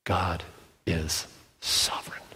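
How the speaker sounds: breathy hushed whisper of awe; whispered reverent emphasis. Real, not acted. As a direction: drop to a whisper on the key truth. Hushed emphasis on God's rule.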